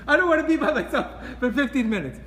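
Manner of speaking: high, loud and laughing as he mimics; laughing mock complaint. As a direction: laugh through the whiny excuse. Mocking people who shock themselves.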